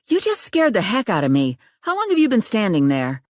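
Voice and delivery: lightly voiced startled young woman; Riley's voice, rattled. A narrator's reading. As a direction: scold him, heart still pounding.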